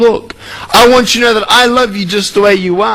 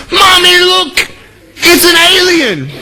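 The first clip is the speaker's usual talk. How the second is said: put-on higher child's startled call to mommy; little girl; 9 semitones higher, slower than usual. Little girl seeing speaker calls to mom, high child cry. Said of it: "She goes".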